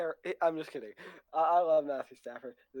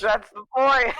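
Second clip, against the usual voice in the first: boomy radio-broadcast mic sound; louder through a bad mic; in a bunker; 6 semitones higher, 8 dB louder, slower than usual. Real, not acted. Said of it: "you sound like a radio broadcast".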